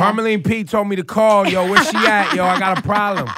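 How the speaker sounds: loud, brash caller saying Yo; street caller voice. Pretend. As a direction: play a brash caller name-dropping. Caller name-dropping the commissioner.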